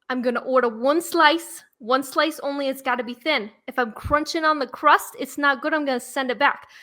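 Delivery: lightly voiced New York pizza customer; New York accent. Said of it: "when you do the New York accent".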